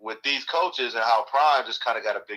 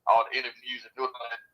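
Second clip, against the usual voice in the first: underwater; 2 semitones higher than usual. Real, not acted. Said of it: "You sound like you're up underwater".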